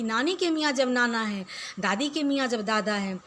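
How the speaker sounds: steady rhythmic verse reading for pupils; poem recitation. Acted. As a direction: read the rhyme out to the class.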